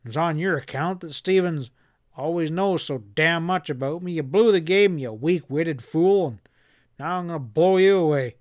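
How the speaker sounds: snarling. Acted. Boss snarling accusations before he shoots, furious. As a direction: spit the accusation at him. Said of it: "Chad snarled".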